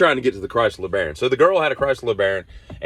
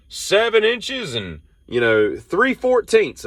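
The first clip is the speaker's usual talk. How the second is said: baffled; 11 semitones higher, much slower than usual. Retold or imitated. Baffled at odd measurement.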